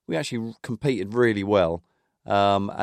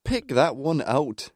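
put-on Andy Gray Scottish accent; 4 semitones higher, slower than usual. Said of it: "I thought he said".

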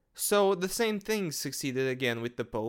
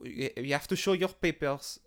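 put-on a botched German accent that slides into French; half-hearted German accent that comes out French; terrible German accent. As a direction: bark it like a bad movie German guard, but the accent drifts French. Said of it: "that was a fucking terrible German accent".

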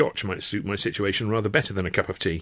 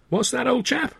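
high, breezy query; light questioning. A narrator's reading. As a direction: toss it back over the shoulder. Sid turning back.

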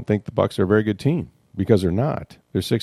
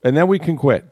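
retold Brady quote; 8 semitones higher, 4 dB louder than usual. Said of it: "he actually looks to the guys and he goes".

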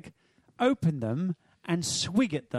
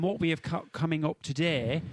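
northern accent. Shown as a demonstration. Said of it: "That's my northern accent".

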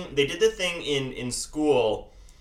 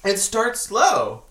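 slow, louder warning; slow ominous louder; 7 semitones higher, 6 dB louder, much slower than usual. Pretend. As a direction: spell it out slowly and firmly. Repeat with more force.

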